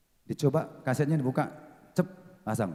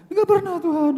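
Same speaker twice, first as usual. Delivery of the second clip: high, louder anguished cry to God; 8 dB louder than usual. Retold or imitated. Pastor recalls crying out to God, high and loud.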